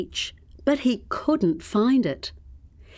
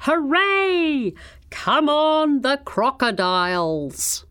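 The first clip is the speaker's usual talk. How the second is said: high, loud football cheer; shouted cheer; 6 semitones higher, 3 dB louder, slower than usual. A narrator's reading. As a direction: yell encouragement at the match. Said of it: "he shouted".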